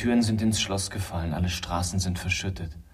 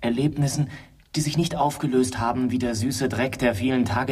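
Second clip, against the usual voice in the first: eindringlich; 4 semitones higher, 4 dB louder than usual. Acted. Steigert sich eindringlich.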